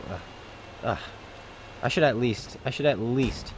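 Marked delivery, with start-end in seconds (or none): 0.1-1.0 mock whisper. Mock struggling.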